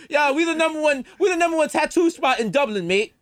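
high, hammed-up Irish lilt; mock Irish accent. Host spoofs a Dublin tattoo show, mock Irish accent. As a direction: play a cartoon Irish tattooist.

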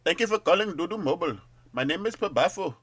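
sing-song customer service voice; call center agent. Acted.

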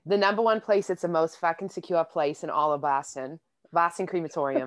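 a light Boston accent. Shown as a demonstration. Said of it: "a Boston accent".

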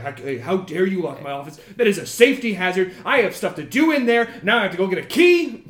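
fast, indignant tirade building as it goes; angry lecturing. Acted. Boss lecturing intruders about his locked office, angry and indignant. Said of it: "he starts to lecture you".

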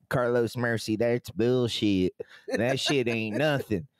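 put-on light Davie Florida accent, slow on bullshit; a hint of a Davie Florida accent. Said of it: "Is, is that your Massachusetts accent?".

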